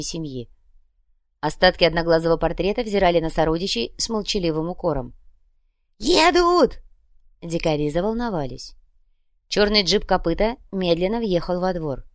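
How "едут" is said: sudden high call; shout. Acted. Lookout shouting that they arrive. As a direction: yell out the alarm.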